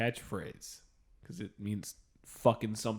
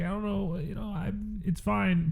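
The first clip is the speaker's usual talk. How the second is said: Brian imitation; 8 semitones higher than usual. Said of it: "and so Brian's like".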